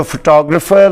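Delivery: फोटोग्राफर as fuh-TOG-ruh-fer; फोटोग्राफर stressed TOG; फोटोग्राफर English style; correct English pronunciation. Shown as a demonstration. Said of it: "लफ्ज़ होता है".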